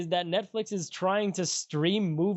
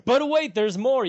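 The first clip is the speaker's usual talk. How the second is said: infomercial voice; 7 semitones higher, 7 dB louder than usual. Acted. Infomercial catchphrase.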